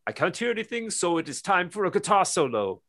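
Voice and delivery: imitating the singer's deadpan announcement; mock singer quote. Singer tells the crowd he can't hear, mimicked high. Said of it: "And he's like".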